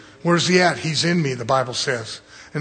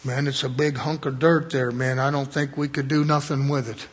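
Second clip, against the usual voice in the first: imagined doubter; 5 semitones lower, 6 dB quieter than usual. Pretend. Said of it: "I could see him sitting there going".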